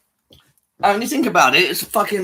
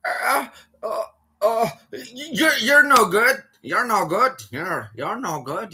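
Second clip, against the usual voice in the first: stammering mock of a slow caller; higher-pitched, stuck on words, mocking her; struggling to speak; 4 semitones higher, much slower than usual. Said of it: "She was struggling to get them words out".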